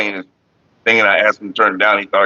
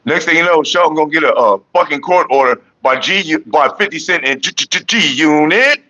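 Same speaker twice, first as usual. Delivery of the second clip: playful riff; 3 semitones higher than usual. Pretend. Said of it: "when you said it like that".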